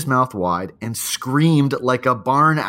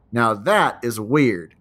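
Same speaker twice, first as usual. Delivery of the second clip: put-on little Southern accent; 4 dB louder, slower than usual. Mom on video sees the owl, in a lightly imitated Southern accent. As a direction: imitate a mom's gentle Southern accent, slowed down. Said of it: "in her little Southern accent".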